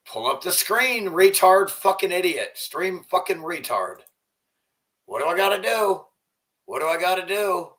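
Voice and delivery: annoyed streamer yelling at his broken setup; angry frustration. Real, not acted. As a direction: snap at the stream software.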